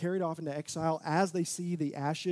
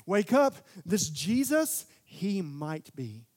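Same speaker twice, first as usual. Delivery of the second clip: urgent wake-up call; 7 dB louder than usual. Retold or imitated. John calling his readers to wake up, loud and urgent. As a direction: shake the listeners awake. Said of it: "He was trying to invoke".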